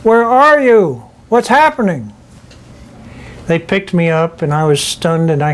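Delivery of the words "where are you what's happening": cousins hollering. Retold or imitated. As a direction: call out anxiously from the house above. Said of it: "came out of the house up above hollering".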